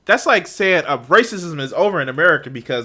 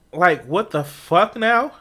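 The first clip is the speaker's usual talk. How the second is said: incredulous; much slower than usual. Real, not acted. Incredulous reaction to argument.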